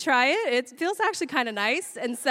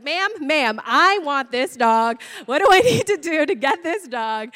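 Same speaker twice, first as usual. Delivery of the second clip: loud, insistent mock pleading; urgent demand; 3 semitones higher, 5 dB louder than usual. Adopter to clinic worker while holding puppy, urgent demand. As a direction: press hard with stretched, forceful words.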